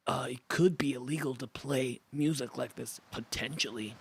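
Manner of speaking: lightly voiced dopey macho hunk; himbo voice. Shown as a demonstration. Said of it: "what's my himbo voice?".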